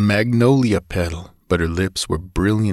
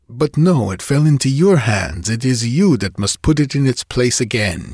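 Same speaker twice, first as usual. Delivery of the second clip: playful command; 3 semitones higher than usual. Acted. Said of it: "she ordered".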